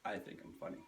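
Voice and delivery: unvoiced self-mocking aside; whispered aside. Real, not acted. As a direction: whisper it to yourself. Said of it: "self-aware aside".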